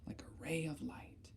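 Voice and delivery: soft whispered aside; hushed whisper. Shown as a demonstration. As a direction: breathe it out like a secret. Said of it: "whispered aside while defining ray".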